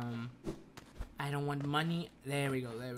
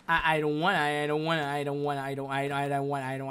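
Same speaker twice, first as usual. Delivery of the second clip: nervous; 4 dB louder, faster than usual. Real, not acted. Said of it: "I'm nervous".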